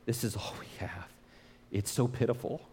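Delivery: hushed, pitiful whisper; a small, whispered admission of little food. Retold or imitated. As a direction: breathe it out, embarrassed by how little they have. Disciples lamenting their meager lunch.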